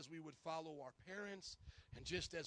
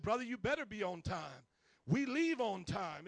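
Brother T drill sergeant; 8 dB louder than usual. Retold or imitated. Brother T refusing gloves, barked like a drill sergeant. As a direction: bark the order like a drill sergeant. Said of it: "He was a drill sergeant".

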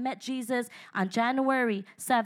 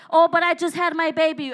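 whiny excuse; 4 semitones higher, 6 dB louder than usual. Retold or imitated. Mocking excuses of believers.

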